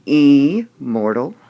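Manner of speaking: "immortal" wrongly said IMM-ortal, questioning; slow, loud IM-mortal as a test question; stress on first syllable. Shown as a demonstration. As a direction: punch a long, loud, high IM, then rise on -mortal. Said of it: "Which part of the word".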